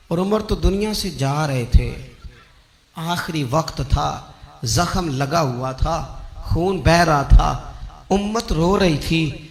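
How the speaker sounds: hushed lament from the pulpit; solemn sorrow. Real, not acted. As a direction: let each short phrase fall gravely. Sorrowfully tells of Umar's dying.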